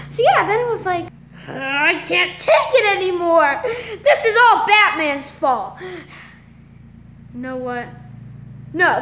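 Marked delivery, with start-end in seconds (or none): 1.5-5.8 half-laughing, half-sobbing complaint; mock sobbing with laughter breaking through; laugh-crying. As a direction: play it as a giggly fake sob. Character breaks down over Batman.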